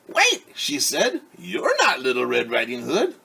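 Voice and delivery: she sees the wolf; startled grandmother. Acted. Grandmother opening the door to the wolf, alarmed.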